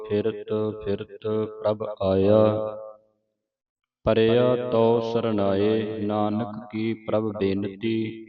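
slow, drawn-out reading of verse; scripture recitation. Acted. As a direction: recite it slowly, word by word. (ਧੀਮਾ ਗੁਰਬਾਣੀ ਪਾਠ)

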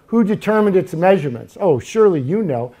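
a touch of sarcasm in reading God's challenge; mild sarcasm. Acted. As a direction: read the challenge with mild irony. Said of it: "I hear the sarcasm".

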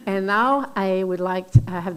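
English with a thick French Canadian accent. Real, not acted. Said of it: "my thick French Canadian accent".

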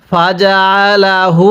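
slow drawn-out tajweed chant; Quran recitation. Shown as a demonstration. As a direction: stretch every vowel like a teacher reciting. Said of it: "আমার সাথে পড়ুন".

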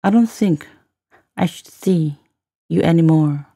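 phrase by phrase, clear pauses between; broken into chunks. Shown as a demonstration. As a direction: model it for learners, pausing after each chunk. Teacher repeats line in slow chunks.

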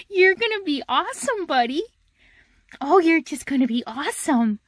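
puppy talk. Real, not acted. Cooing to her new puppy.

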